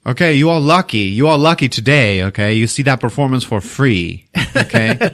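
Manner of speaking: Tommy proudly addressing diners; announcing to the crowd. Retold or imitated. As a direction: play to the whole pizza joint.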